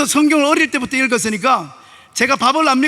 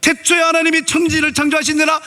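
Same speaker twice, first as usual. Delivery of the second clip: 태초에 lifted higher, read with rising emotion; moved rereading; 6 semitones higher than usual. Shown as a demonstration. Pastor rereading Genesis in tears, higher and moved. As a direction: reread it as if the words come alive, higher. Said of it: "그리고 다시 성경을 읽는 거예요".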